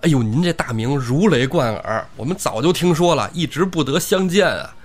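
lightly voiced flattering bandit; a touch of fawning. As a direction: gush with admiration while untying him. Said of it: "边解绳子边说".

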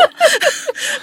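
sharp high squealing laugh; embarrassed high laugh. Real, not acted. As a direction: burst into a flustered laugh. (尴尬的尖声大笑)

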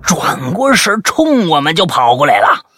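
animated, high-pitched storytelling, building suspense; dramatic story reading. Acted. Host reading a listener's scary night-chase story, dramatic and animated. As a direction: read the chase like a thriller.

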